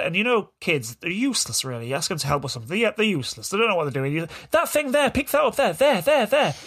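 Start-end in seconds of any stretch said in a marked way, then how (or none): 4.5-6.5 high, insistent, impatient instructions; exasperated ordering. Retold or imitated. Dad re-enacting ordering his son to pick things up, exasperated. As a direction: jab out each word higher, losing patience.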